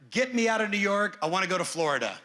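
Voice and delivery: bright, urgent plea to escape the city; mock-eager client begging to leave. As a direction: sound like someone desperate to get out of town. Voicing clients fleeing New York.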